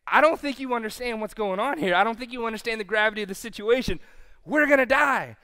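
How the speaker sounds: hurried, insistent castaway in mock despair; hammed-up alarm; freaking out. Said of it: "he's freaking out".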